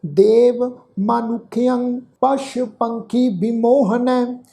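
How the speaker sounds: slow, measured chanting of a sacred verse; scripture recitation. Acted. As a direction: recite each phrase slowly with long pauses. Teacher recites the shloka.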